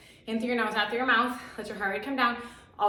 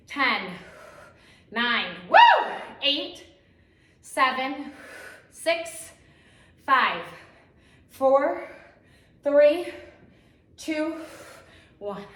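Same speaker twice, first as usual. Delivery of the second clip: excited countdown; 3 semitones higher, 7 dB louder, much slower than usual. Real, not acted. Counting down the final set.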